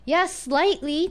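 slow, drawn yeah rising, dry understatement; sarcastic. Shown as a demonstration. Teacher demos a sarcastic yeah slightly about a mean lady. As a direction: say it dryly and slowly, meaning the opposite. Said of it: "it's very sarcastic".

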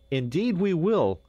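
high, loud exclamation; emphatic cry of agreement; cried out. A narrator's reading. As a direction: call it out eagerly, high and loud. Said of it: "cried all but Hans".

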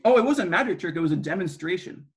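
talking through a mouthful of apple; words around a bite of apple; mouth full. Real, not acted. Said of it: "with my mouth full".

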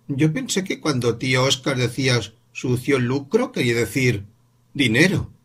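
voz de niño aguda; un niño que cavila en voz alta; niño pensativo. Acted. Voz del niño Paul. (niño explicando a su madre, voz aguda)

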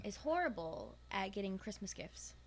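conspiratorial whisper. Real, not acted. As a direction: whisper it like a secret. Gossiping about John.

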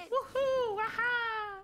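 high, loud whoops; giddy celebratory whoops; excited cheer. Real, not acted. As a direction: cheer it out, pitch way up. Celebrating being recognized.

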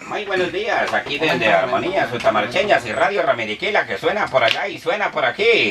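lightly voiced small-town radio announcer; parody radio host. Comedian greeting the fake guest, mock radio host. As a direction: greet the listeners like a village DJ.

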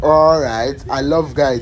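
high loud eager voice; excited. Acted. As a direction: gush it excitedly.

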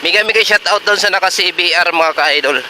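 on a bumpy road. Real, not acted. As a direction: voice jolted on a rough road. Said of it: "nandito na naman tayo sa lubak-lubak".

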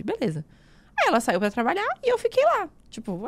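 normal talking voice

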